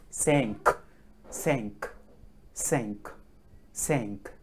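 cinq as "sank", final k released; French five. Shown as a demonstration. Teacher drilling French five, cinq as "sank". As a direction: repeat cinq singly, nasal vowel and crisp k. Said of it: "Cinq is five in French".

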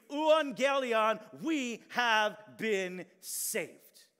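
loud, high, drawn-out proclamation; herald's victory cry. Acted. Messenger announcing victory to the townspeople, loud slow cry.

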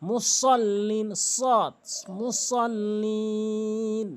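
মুসল্লিন with a heavy, full s, last syllable drawn out; correct Sad recitation. Shown as a demonstration. Teacher shows the Sad in মুসল্লিন, slow careful recitation. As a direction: recite মুসল্লিন slowly, stressing the emphatic Sad. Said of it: "সতের উচ্চারণ সঠিকভাবে করতে হবে".

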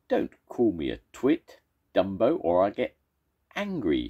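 a riled monster snapping back; fuming monster. Acted. First monster fumes at the second. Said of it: "fumed the first monster".

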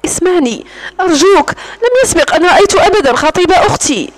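tearful plea, voice near crying; pleading. Acted. Alice begging her captor, tearful pleading. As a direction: beg him to listen, a little choked. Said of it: "فقالت بلهجة متوسلة".

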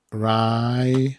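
"ri-" held long and slow; drawn-out syllable. Shown as a demonstration. Teacher breaking the word down for viewers, drawn-out syllable. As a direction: stretch "ri-" out slowly as a syllable demo. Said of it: "i E, czyli".

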